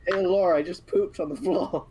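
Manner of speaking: Griffin impression. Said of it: "my, my Griffin impression".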